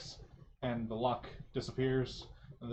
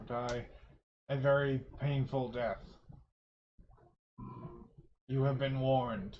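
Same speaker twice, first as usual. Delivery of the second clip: undead king; slower than usual. Acted. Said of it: "in his loud booming voice".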